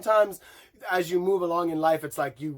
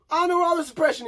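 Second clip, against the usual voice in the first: sarcastic; 12 semitones higher, 4 dB louder, much faster than usual. Real, not acted. Sarcastic rant.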